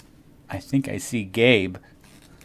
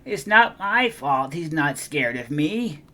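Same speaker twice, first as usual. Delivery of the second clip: higher, pleading little whine; whining; 6 semitones higher, 4 dB louder than usual. Acted. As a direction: beg the teacher. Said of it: "she whined".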